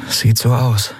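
ordinary delivery, nothing marked

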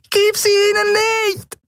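tiny, very high pleading voice; high piping plea; squeaking creature. A narrator's reading. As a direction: squeak it out in distress. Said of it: "piepste die Yadi".

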